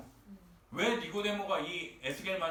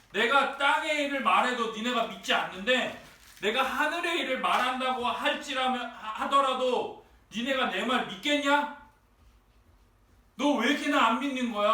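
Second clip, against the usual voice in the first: raised voice, ending in a quicker exasperated demand; pointed reproach; 4 semitones higher, 4 dB louder than usual. Retold or imitated. Preacher plays Jesus confronting Nicodemus's disbelief, exasperated reproach. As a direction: challenge their disbelief in an acted scolding. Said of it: "니고데모의 불신에 대해서 지적하고".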